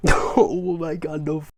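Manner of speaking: loud, slow, giddy delight; thrilled and hopeful; stoked. Real, not acted. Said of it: "I'm so stoked".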